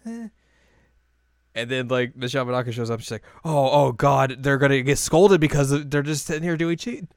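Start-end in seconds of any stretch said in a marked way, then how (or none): 3.4-7.0 raised, louder voice of imitated dread; mock alarm. Azusa fearing the teacher will scold them, mock alarm. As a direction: act out worry that a scolding is coming.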